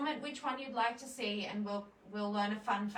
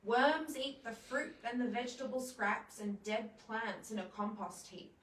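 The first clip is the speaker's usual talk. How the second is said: put-on reading to children. Reads a children's book aloud.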